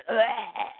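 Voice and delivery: acted grunt of impact; struck grunt. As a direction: grunt as if taking a blow. Guard is hit in acted fight.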